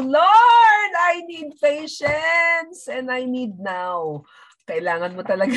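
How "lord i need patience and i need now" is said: high, loud plea to the Lord, slow on the rest; mock impatient prayer. Believer impatiently praying to the Lord for patience, high loud plea. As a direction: demand patience from God right now. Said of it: "pag sinabi mong".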